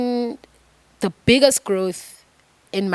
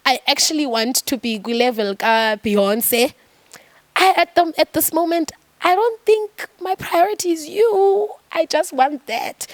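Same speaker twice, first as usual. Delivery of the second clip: higher, candid plea to God; acted vulnerable admission in prayer; honest confession; 6 semitones higher than usual. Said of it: "being honest and saying".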